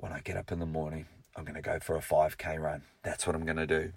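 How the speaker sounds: quiet resolve. Retold or imitated. Quiet resolve lying in bed.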